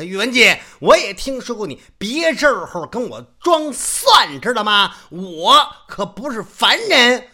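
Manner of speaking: loud, high, slow threat; stern warning. Acted. Old man loudly warns Yuwen Jin not to play dumb. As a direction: warn him off, full of authority.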